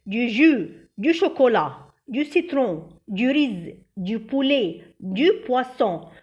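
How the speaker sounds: quick list recitation; quick run-through. Shown as a demonstration. Teacher repeating the word list quickly for memorizing. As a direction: rattle them off one after another. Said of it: "نقولهم كده على السريع مع بعض".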